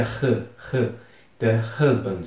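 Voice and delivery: "husband" opening on an H said like Portuguese R; breathed initial H. Shown as a demonstration. Teacher warns about the first syllable, aspirated H in "husband". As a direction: start "husband" with an aspirated "huh". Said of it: "cuidado com essa pronúncia da sílaba inicial".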